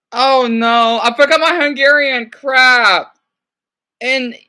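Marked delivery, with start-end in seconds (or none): 0.1-3.2 raised voice, dismayed at yourself; loud dismay. Real, not acted. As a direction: groan it out loudly in frustration. Dismayed at forgetting her Hungarian.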